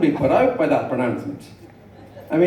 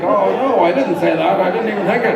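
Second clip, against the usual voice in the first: higher-pitched panicked denial; mock panic; 5 semitones higher, 3 dB louder than usual. Husband caught out by wife, mock panicked denial. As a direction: act out a flustered backpedal. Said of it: "suddenly I'm panicking".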